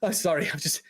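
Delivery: lightly voiced anxious, apologetic mage; a hint of a tongue-tied, nervous man; anxious fella. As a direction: falter while searching for words. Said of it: "anxious fella kind of walks up to you".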